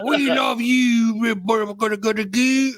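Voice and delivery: high, slow, sing-song mock voice; mock pop girl group. Friend parodying the movie's dialogue, high slow mock coo. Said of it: "And I'm like".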